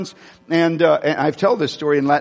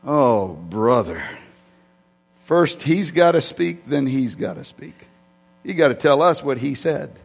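exasperated inner thought; 2 semitones lower than usual. Retold or imitated. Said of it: "sitting there thinking".

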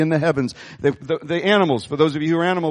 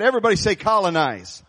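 rallying call to the congregation; more passion. Shown as a demonstration. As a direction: rouse the crowd to repeat it with passion. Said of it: "a little more passion than that".

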